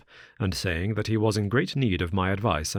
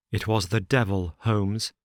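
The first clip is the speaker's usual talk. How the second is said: crying out. Acted. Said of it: "he cried".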